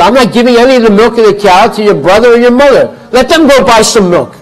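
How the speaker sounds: loud, high-pitched indignant refusal; husband shouting down his wife over milk; angry husband. Acted.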